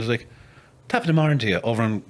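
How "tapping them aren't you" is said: lightly put-on Irish accent; a hint of a Dublin lilt. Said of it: "everyone had an Irish accent".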